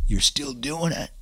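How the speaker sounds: high, slow, strained sergeant's challenge; drill sergeant. Retold or imitated. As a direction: imitate an incredulous drill sergeant, drawn out. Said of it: "the drill sergeant walks up".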